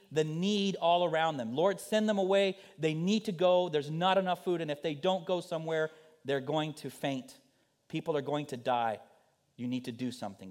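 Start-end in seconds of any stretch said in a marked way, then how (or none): 1.5-10.5 raised, louder, anxious pleading to the Lord; urgent pleading. Acted. Disciples urgently pleading with the Lord, louder and higher. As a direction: beg him to act before people faint. Disciples voiced begging Jesus.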